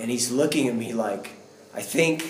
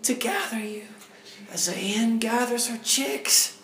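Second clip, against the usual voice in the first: voice of the Lord; 12 semitones higher than usual. Retold or imitated. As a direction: speak as God, aching with longing. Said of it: "the Lord is saying, like thunder".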